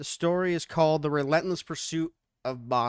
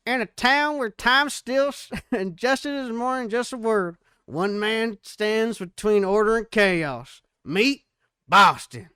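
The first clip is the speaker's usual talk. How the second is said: higher, louder, slower movie-trailer narrator; 6 semitones higher, 5 dB louder than usual. Acted. Narrator introducing the sheriff in a dramatic trailer voice. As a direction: boom out the intro like a western trailer. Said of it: "a different voice for the narrator".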